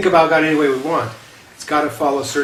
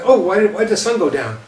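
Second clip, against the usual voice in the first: scared caveman; 4 semitones higher than usual. Retold or imitated. Cavemen wondering why the sun sets, mock fear. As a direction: play a startled caveman staring at the sunset. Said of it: "They're scared".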